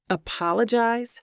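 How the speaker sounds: scornful questioning echo of apologize; sarcastic repeat; mocking echo. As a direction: throw the word apologize back at him, mocking. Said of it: "I echo in a mocking tone".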